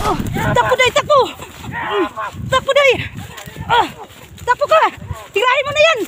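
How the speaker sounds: high, loud urgent yelling; while running. Real, not acted. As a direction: yell at a partner to run for it. Fleeing enemies, urging partner to run.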